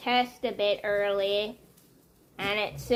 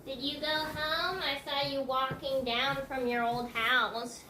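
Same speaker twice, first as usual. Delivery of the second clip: higher, softer voice for the cat; pet talk; 4 semitones higher, 4 dB quieter than usual. Real, not acted. Owner calling softly to her cat, higher coaxing voice. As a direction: coo gently at the kitty.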